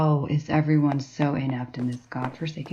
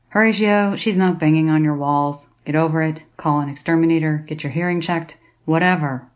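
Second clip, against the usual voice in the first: louder, brusque brush-off; dismissive snap; 4 dB louder than usual. Acted. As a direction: wave him off impatiently. Dismissive tirade at colleague.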